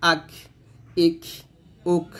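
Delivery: "আক, ইক, উক", each ending in a puff of air; aspirated endings on "আক, ইক, উক"; breathy release. Shown as a demonstration. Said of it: "এরকম বাতাস বের করবেন".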